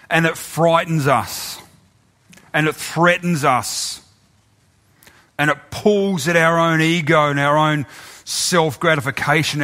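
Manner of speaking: slow, earnest prayer voice. Real, not acted. Preacher leads the congregation in prayer. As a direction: pray slowly over the people.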